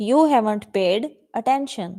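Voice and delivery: drawn-out, careful phrasing; slow model reading. Shown as a demonstration. Teacher models the sentence slowly for the class. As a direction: say each word slowly to be copied. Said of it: "teacher models the sentence".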